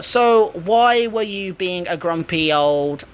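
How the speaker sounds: slow, drawn-out mock teasing; playful ribbing, said slowly; joking tease. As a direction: stretch it out like a friendly jab. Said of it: "I was saying it as a joke".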